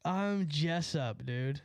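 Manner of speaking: mocking Jessup. Mocking the angry driver again.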